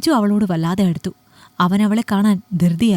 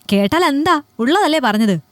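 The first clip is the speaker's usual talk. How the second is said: raised, higher defiant snap; angry retort; 5 semitones higher than usual. Acted. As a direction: throw it back at her angrily. Husband snaps back at wife.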